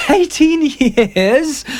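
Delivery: very high, slow laughing "Eighteen years?"; triumphant laugh. A narrator's reading. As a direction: savour your escape, laughing. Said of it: "laughed Dorian Gray with a touch of triumph".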